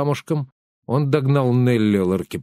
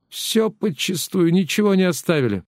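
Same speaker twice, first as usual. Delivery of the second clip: lamenting; 8 semitones higher than usual. A narrator's reading. Robbery victim laments.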